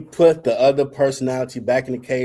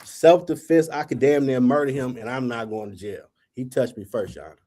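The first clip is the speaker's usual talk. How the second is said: mock prayer. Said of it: "I'm praying".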